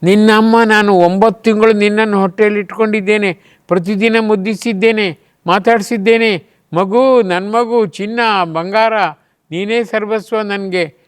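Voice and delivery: a hint of a pleading, loving mother; doting mother. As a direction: coax the baby with endearments. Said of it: "ತಾಯಿ ಕೇಳಬೇಕಾದ ಪ್ರಶ್ನೆ ಇದು".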